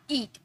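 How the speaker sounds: ईट opening on a clear ee; pronunciation model. Shown as a demonstration. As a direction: model ईट as one word with an ee vowel. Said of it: "इसे pronounce करते". (ईट में ई का उच्चारण)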